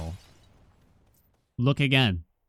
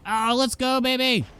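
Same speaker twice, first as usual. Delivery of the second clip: excited cheer; 11 semitones higher than usual. Real, not acted. Big win in the game.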